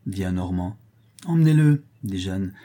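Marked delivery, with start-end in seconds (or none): 1.2-1.8 commanding order. Acted. Jeanne orders the arrest.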